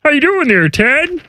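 puppet-frog character voice; lightly swooping frog-puppet greeting; Kermit. Acted. Greeting Ted as a puppet frog, in character voice.

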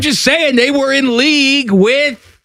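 put-on Wolfgang's German accent. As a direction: play a pompous German named Wolfgang in a mock German accent. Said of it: "Wolfgang here for".

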